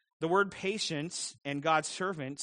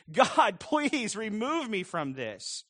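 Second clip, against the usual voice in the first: slow, raised, half-laughing plea; mock pleading prayer; 4 semitones higher, 5 dB louder, much slower than usual. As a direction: whine to God, hammed up and slow. Voiced plea of a frustrated believer.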